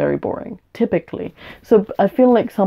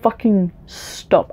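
a breathy then slow self-command; cutting herself off; much slower than usual. Real, not acted. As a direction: rein yourself in mid-rant. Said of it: "I'm sorry. I've gone, like, way off tangent".

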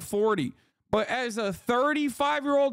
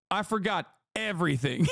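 mock dazed fan; 5 semitones lower than usual. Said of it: "You saw Doc and you were like".

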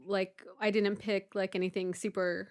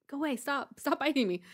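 retold protest; 6 semitones higher than usual. Retold protest at biting bird.

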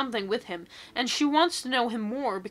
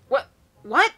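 high, loud incredulous squeak; can't believe what she just read; shocked what; 4 semitones higher, 8 dB louder than usual. Real, not acted. Reacting to the absurd story.

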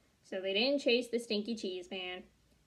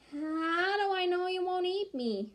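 high, worried little voice; nervous squeaky voice; 8 semitones higher than usual. Acted. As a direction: sound suspicious and scared. Cheese man fearful.

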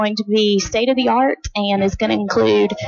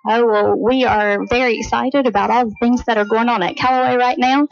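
slightly winded after climbing stairs; out of breath; 2 semitones higher than usual. Real, not acted. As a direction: talk a bit breathless, catching air. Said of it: "I am a little out of breath from walking up all those stairs".

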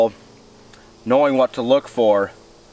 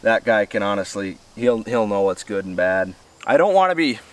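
talking through a mouthful of food; words around a bite of mushroom; mouth full; 3 semitones lower than usual. Real, not acted. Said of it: "talking with my mouth full on here".

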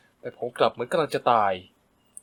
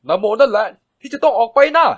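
much higher and louder yell; full-voice shout; 8 semitones higher, 9 dB louder than usual. A narrator's reading. Son screaming at the stepmother to get out. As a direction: scream it with all you have. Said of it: "ตะโกนเสียงดังใส่เธอจนสุดเสียง".

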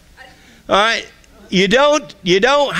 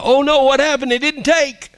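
high, louder hammed-up panic; mock scared; 11 semitones higher, 4 dB louder than usual. Acting a new believer at the mirror, mock scared. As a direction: wail it in comic alarm. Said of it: "You may be scared. You may go".

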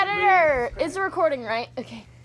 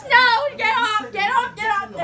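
half laughing, half crying get off; laughing protest; 6 semitones higher than usual. Real, not acted. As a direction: push it away laughing. Laughing, pushing foam away.

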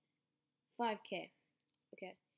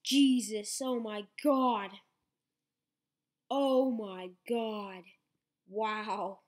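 shocked; 3 dB louder, slower than usual. Real, not acted. Continued shock at pull.

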